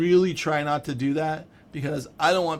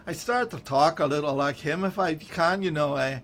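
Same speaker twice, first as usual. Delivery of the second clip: lightly attempted Scottish accent, a bit higher; bad Scottish accent; 3 semitones higher, 4 dB louder than usual. Shown as a demonstration. Writer admitting he copies his Scottish friend, terrible Scottish accent. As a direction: slip into a hint of bad Scottish. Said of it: "I know I'm doing a terrible accent".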